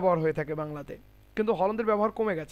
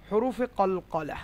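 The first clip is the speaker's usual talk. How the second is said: slow careful naming; much slower than usual. Shown as a demonstration. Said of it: "এই বর্ণগুলোর নাম হচ্ছে".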